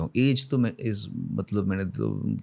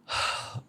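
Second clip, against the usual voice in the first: heavy sigh; 7 dB quieter than usual. Real, not acted. Overcome by tears on stage.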